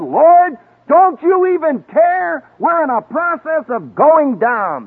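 hammed-up panic, pitched high; panicked plea. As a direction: call out like frightened fishermen sinking. Panicked fishermen crying to Jesus.

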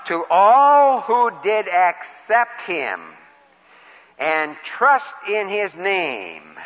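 reading each phrase slowly and deliberately; slow scripture reading. Shown as a demonstration. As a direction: savor every word of the verse. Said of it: "I'll read it".

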